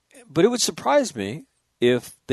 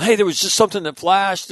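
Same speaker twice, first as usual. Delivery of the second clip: higher-pitched, mildly raised imitation of yelling; mock sailors' yell; 8 semitones higher, 3 dB louder than usual. Retelling sailors reporting a flash, mild mock yell. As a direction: call it out like an alarmed lookout, half-strength. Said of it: "these sailors start yelling".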